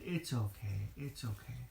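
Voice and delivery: low, soft and reassuring; comforting. Acted. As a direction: soothe him gently, quietly. Frodo comforts crying Gollum.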